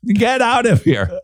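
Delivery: high-pitched mock-angry dismissal; openly aggressive. Host jokingly throws co-host out, mock aggressive. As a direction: play up kicking someone out, pitch soaring. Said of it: "passive-aggressive without the passive part".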